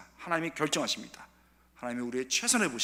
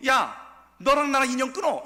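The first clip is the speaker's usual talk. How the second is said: loud, much higher hammed-up yell; mock angry mother; 9 semitones higher, 9 dB louder than usual. Pretend mother yelling to disown her child, loud mock fury. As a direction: cut ties like a furious mom. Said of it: "어머님이".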